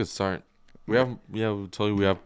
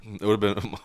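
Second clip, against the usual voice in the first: voice cracking; slower than usual. Real, not acted. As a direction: voice cracks upward mid-phrase. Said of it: "my voice cracked".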